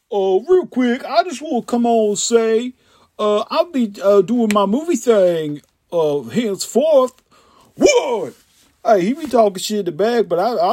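comic impression. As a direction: do an animated, slangy character bit. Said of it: "that was my little impression".

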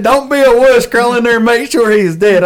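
mock bossy order. Buddy on the radio ordering him in, retold loud. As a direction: boom it like a pushy hunting buddy.

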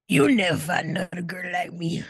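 laughing while reading the line dramatically; dramatic reading through laughter. Acted. Cohost reading a text aloud dramatically, laughing. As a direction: giggles breaking a mock-dramatic read. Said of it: "dramatically read this in".

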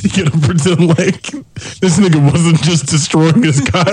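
words pushed out through real laughter; laughing while talking. Real, not acted. Friend finishing his crude cover-up joke, laughing. Still laughing at own scenario.

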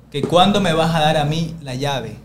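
slow, emphatic repeat of a demand; rude insistent demand. Retold or imitated. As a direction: imitate an impatient neighbor pressing for her key. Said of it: "Así".

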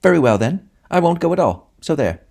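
high, loud, snappish woman's voice; a cross woman flouncing off in a huff; waspish woman snapping. A narrator's reading. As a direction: snap it out like a petulant little woman. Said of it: "a little waspish woman ... snapped out".

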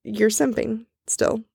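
slurred, slow tipsy talk. Real, not acted. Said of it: "my drunk voice".

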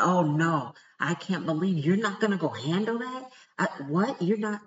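a hint of a scandalized friend egging her on; friend's disbelief. The friend pressing her to go handle it, incredulous. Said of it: "that person was like".

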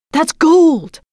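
loud, high greedy shout; robbers crying out. Acted. Robbers spot the golden carriage, shouting loud and high. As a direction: yell it as a robber spotting gold. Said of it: "they cried".

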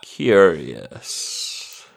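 low, slow drawn-out villain; lightly voiced scheming archmage. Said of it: "you recognise the voice as the Archminster Elgort".

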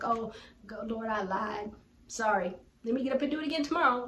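tossed-off fake apology, speeding up at the end; mock careless prayer. Mimicking a careless Christian's quick apology to the Lord, flippant. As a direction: brush it off like you'll sin again tomorrow. Mocking an insincere quick repentance.

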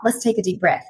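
usual speaking voice

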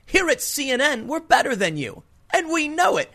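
lightly voiced arrogant newsman gloating; imitating a gloating TV host, pitch jumping up; smug anchor. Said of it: "Don Lemon may as well have said".

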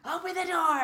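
shouted retold command; demanding shout. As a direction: imitate an angry coach outside the door. Coach banging on the locker door.

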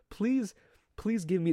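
high, whining please please; squeaky begging. Pretend. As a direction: beg in a squeaky little voice.

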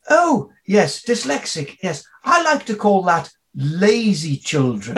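lightly mock the snooty teacher; dismissive teacher. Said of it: "and she went".

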